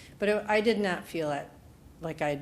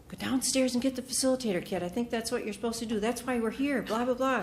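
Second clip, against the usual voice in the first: fast, higher pushy friend voice; quick, pitched-up nudging friend; friend urging; 5 semitones higher, faster than usual. Retold or imitated. Friend Meg quoted urging her.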